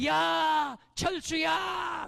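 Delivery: loud, drawn-out call across the yard; mother calling out. Retold or imitated. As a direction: call the child home for dinner, slow and long. Mother calling child home. (저녁에 아이를 부르는 엄마, 길게 외침)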